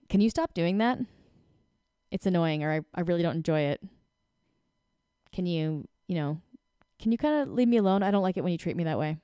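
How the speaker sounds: even, calm request; steady, unbothered ask; calm, no energy. Shown as a demonstration. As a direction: ask it plainly, without heat. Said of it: "You see how there's no energy?".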